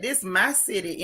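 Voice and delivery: lightly imitated New York accent, a bit low; a hint of New York attitude. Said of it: "in her New York voice".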